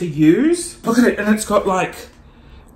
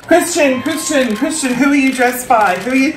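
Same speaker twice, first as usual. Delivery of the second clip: eager interviewer calling out a name; red carpet interviewer; 5 semitones higher than usual. Pretend. Host calling a celebrity on the carpet, eager interviewer. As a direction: play a pushy red carpet reporter.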